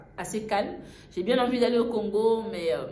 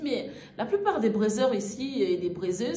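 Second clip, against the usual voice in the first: laughing. Retold or imitated. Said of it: "elle s'est mise à rigoler".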